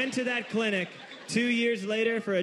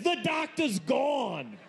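blunt nurse shout; 7 semitones higher, much slower than usual. Retold or imitated. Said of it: "And Batman said".

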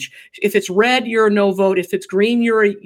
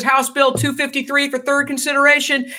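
lightly voiced chamber announcement, raised pitch; Speaker of the House; 4 semitones higher than usual. The speaker calls the bill in the House, lightly official. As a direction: announce it a little like a presiding officer. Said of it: "like the Speaker of the House".

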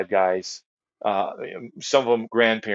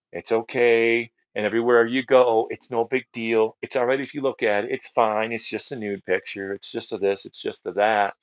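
mock rationalizing; 2 semitones higher than usual. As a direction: parody the excuses men tell themselves. Mocking men's excuses about porn.

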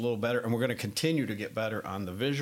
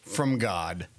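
Blues Brothers line; slower than usual. Retold or imitated. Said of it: "In the words of, um, Elwood and Jake Blues".

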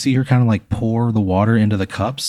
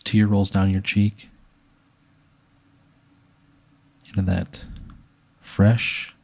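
hushed storytelling. Pretend. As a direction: unfold the wedding scene gravely, line by line. Narrates an imagined wedding scene.

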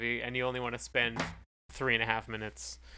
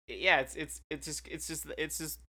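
stuck repeating it's; stammering, words catching; stuttering; 3 semitones higher, 3 dB quieter than usual. Real, not acted. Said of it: "I'm stuttering".

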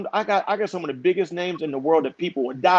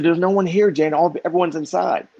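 higher-pitched objection to his wife; retold protest; 4 semitones higher, 4 dB louder than usual. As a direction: plead the case, raised pitch.

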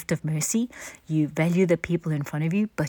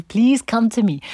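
higher, louder street-corner call; 6 semitones higher, 5 dB louder than usual. Retold or imitated. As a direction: call out to passers-by. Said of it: "stands on the street corner and shouts".

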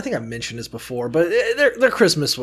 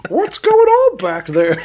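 slow, higher parent voice calling; 9 semitones higher, 7 dB louder, slower than usual. Pretend. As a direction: call from another room.

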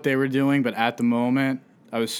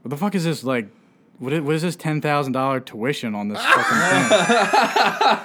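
angry dad shout; 3 semitones higher than usual. Retold or imitated. Imitating dad finding the tuition on the tax form, angry shout. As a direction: bellow it like a furious dad. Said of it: "he was like".

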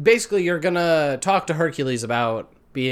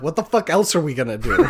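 laughing quote; faster than usual. Retold or imitated. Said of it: "And you're like".

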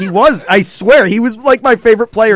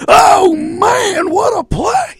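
high shouted redneck call; redneck announcer; 4 dB louder, much slower than usual. Retold or imitated. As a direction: yell it like a hick announcer. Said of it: "turns, like, redneck in that call".

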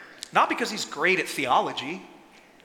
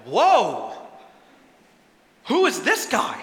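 louder, awed gasp then question; stunned by what they just saw; amazed crowd; 3 dB louder, slower than usual. Acted. Crowd amazed at Jesus, louder awed surprise. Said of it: "they're like".

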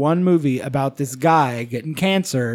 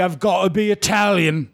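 put-on Italian accent; 2 semitones higher than usual. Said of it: "And he did an Italian accent".

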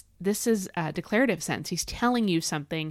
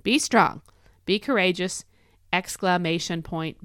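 "exclamation point" said slowly and deliberately after a punched "Be strong"; emphatic exclamation. Shown as a demonstration. Host repeats God's command to listeners, emphatic exclamation. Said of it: "he puts an exclamation point there".

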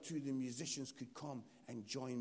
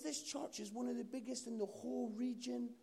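higher-pitched, insistent retelling; incredulous explaining; 6 semitones higher than usual. Retold or imitated. Gentleman telling Mark about the big church, incredulous. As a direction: explain it as if it were obvious.

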